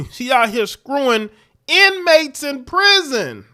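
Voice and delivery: can't hold back a laugh at the scandal. Real, not acted. Host laughing to viewers about the officer, high and laughing. Mocking the officer's prison affair.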